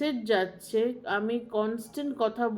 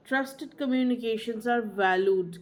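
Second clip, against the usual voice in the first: slow maxim; much slower than usual. Shown as a demonstration. Teacher stating a key maxim.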